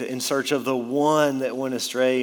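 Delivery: "one" leaned on firmly; stress on one. Shown as a demonstration. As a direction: punch the word "one". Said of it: "Notice the emphasis on that word one".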